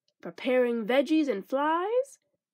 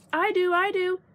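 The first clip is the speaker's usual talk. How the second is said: higher, keen volunteering; eager cry; 6 semitones higher, 3 dB louder than usual. Acted. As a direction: pick me, pick me. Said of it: "cried Froggy".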